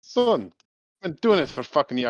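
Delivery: put-on grizzled old bomber. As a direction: brush him off like an old hand.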